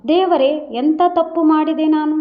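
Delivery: mild, understated wail to God; a touch of weeping despair, read lightly; ಸ್ವಲ್ಪ ಅಳುವ ಧ್ವನಿಯಲ್ಲಿ; crying out. Acted. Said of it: "ಗಟ್ಟಿಯಾಗಿ ಅಳುತ್ತಾಳೆ".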